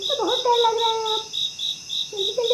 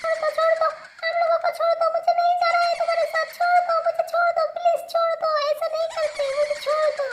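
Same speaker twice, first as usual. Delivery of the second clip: terrified pleading. Acted. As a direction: plead with a captor for mercy. Sister begs the witch to let go.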